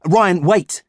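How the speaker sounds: high, loud call. A narrator's reading. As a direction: shout to stop a friend. Calling after friend.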